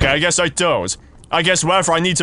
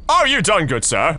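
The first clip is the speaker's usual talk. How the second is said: mock-polite insistence. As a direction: ask with exaggerated mock courtesy. Mock-polite repeat to monster.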